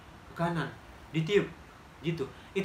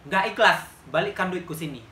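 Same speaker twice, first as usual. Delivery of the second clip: angry retort; 6 dB louder than usual. Retold or imitated. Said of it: "langsung emosi aku".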